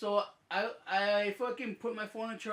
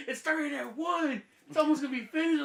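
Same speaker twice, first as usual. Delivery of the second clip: teasing friend; 7 semitones higher, 4 dB louder than usual. Retold or imitated. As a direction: drag it out with a laugh, rubbing it in. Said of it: "He's like".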